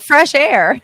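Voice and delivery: high, loud echoed question; mock incredulity. Host replies to friend's advice, mock incredulity. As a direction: throw it back as if astonished. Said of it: "so I was like".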